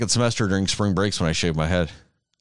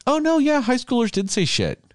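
quoted reaction, pitched way up; mock realization. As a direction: pipe up high, as if conceding the point. Voicing own reaction to the movie.

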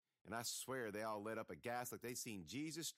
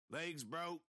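growled; 6 semitones higher, 3 dB louder than usual. A narrator's reading. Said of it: "Raggedy Man growled".

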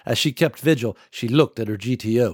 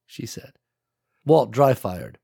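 usual speaking voice

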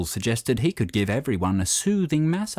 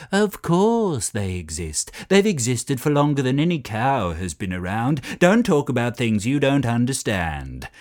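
heated argument; 3 dB louder than usual. Acted. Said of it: "heated arguments".

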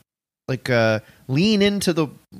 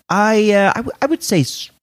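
Ben Stiller; 4 semitones higher, 4 dB louder than usual. Retold or imitated. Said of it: "Ben Stiller's like".

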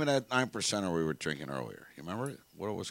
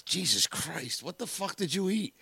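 drawn-out, rising disbelief; mock-horrified exclamation; appalled wife; 5 semitones higher, slower than usual. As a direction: act out a wife's disgusted shock, slowly climbing in pitch. Retold wife appalled after bathroom.

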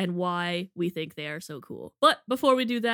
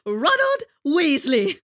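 slow, higher put-on boy voice; Ron Weasley impression; 7 semitones higher, 7 dB louder, slower than usual. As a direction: do Ron's voice, drawn out. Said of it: "I'll do an impression".

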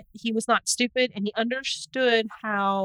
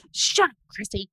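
laughing; 4 dB louder than usual. Real, not acted. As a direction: giggle through shut up. Laughing at friend's teasing.

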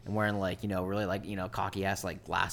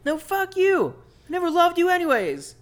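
high, screeching lover's spat; angry dwarf yelling at his partner; quarreling dwarf; 8 dB louder than usual. Acted. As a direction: screech it through the window. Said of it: "you hear Barrymore just like".

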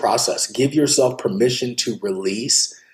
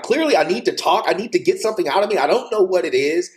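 higher, fast pleading thought; raised, hurried inner plea; urgent desperate inner voice; 8 semitones higher, faster than usual. Retold or imitated. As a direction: blurt it out like you're cracking. Retold urgent thought on crisis night.

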